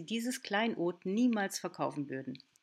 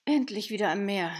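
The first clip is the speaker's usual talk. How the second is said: happy exclamation; 7 dB louder than usual. Acted. Arriving at the sea.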